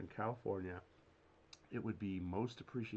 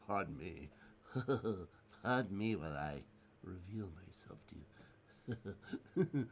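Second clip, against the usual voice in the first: laughing; 4 semitones lower than usual. Pretend. Joking reveal with laughter.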